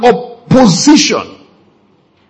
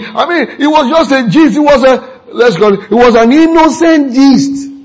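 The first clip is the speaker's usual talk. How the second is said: higher-pitched, faltering self-justification; stumbling, pitched-up mock excuses; defensive excuse-maker; 4 semitones higher than usual. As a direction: lightly act out a gossip making excuses. Acting out gossipers excusing themselves.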